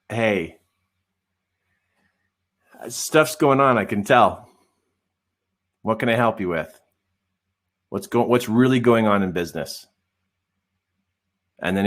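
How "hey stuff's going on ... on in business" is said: gentle probing. Retold or imitated. Gently drawing out the client.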